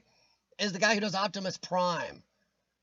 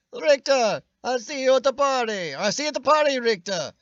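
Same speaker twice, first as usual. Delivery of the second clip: put-on Austrian-accented, higher and louder Schwarzenegger line; Schwarzenegger impression; 4 semitones higher, 6 dB louder than usual. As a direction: bark it out like Arnold. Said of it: "Which I can't do his at all".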